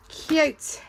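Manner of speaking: high, loud squeal of delight; delighted gush. Real, not acted. Showing viewers her binder, a high delighted squeal. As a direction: burst out at how cute it is. Gushing over envelope decoration.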